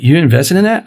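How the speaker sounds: understated questioning, rising at the end; mild retold surprise. Asking his friend about the investment, mildly surprised. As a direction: ask it with a touch of surprise.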